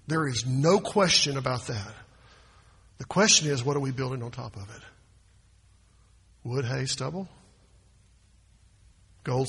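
ordinary talk

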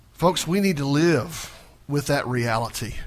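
ordinary talk

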